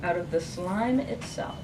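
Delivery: measured verse, falling at line ends; poem reading. Acted. Poet reading Testimony after its epigraph, measured recital. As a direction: recite it phrase by phrase to an audience.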